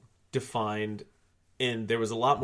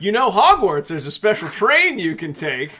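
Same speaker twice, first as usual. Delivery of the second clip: excited presenter; 8 semitones higher, 6 dB louder than usual. Acted. Hosts introduce the podcast segment.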